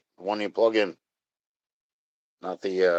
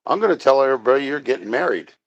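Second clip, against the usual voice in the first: quick, pitched-up taunting friend; teasing friend; 4 semitones higher, faster than usual. Retold or imitated. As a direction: rattle it off like a gleeful tease. Friend's teasing quoted, fast.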